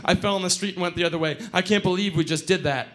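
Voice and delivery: rushed, breathless babble; out of breath. Acted. Late friend arriving on the porch, out of breath. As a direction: blurt it fast, as if just run. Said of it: "showed up panting and out of breath".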